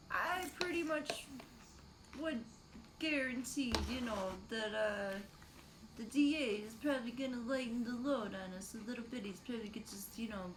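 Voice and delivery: lobster voice, claws clacking; lobster impression. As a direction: talk like a cartoon lobster. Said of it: "That was my, like, lobster impression".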